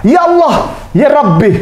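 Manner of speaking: a sudden shocked invocation; mild mock astonishment; startled cry. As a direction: blurt it out in surprise. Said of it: "Dia kaget, dia bilang apa?".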